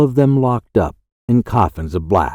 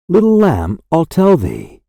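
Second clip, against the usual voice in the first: higher, rising echo of the refrain; lifted repeat; 5 semitones higher than usual. Acted. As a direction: lift the repeated line up, gently answering.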